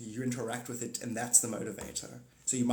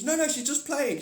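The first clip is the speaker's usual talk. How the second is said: siren; 12 semitones higher, 5 dB louder than usual. Retold or imitated. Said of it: "And she's like".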